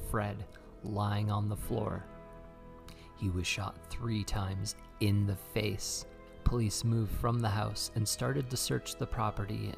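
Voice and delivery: measured storytelling read; true crime narration. Acted. Reads true crime over music.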